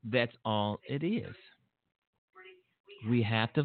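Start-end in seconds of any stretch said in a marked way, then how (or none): 0.0-1.3 said slower with gum in mouth; chewing gum, slow and quieter; mouth full. Real, not acted. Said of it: "I have gum in my mouth".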